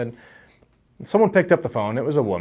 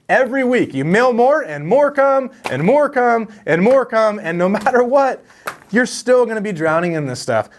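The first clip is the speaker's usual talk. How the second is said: laughing; 11 semitones higher, 4 dB louder than usual. Real, not acted. Buried under heaps of return mail.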